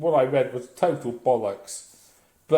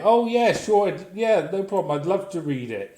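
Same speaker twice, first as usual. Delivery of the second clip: fake eager yes; 5 semitones higher than usual. To a friend's book request, forced cheerful yes. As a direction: gush a fake yes you don't mean.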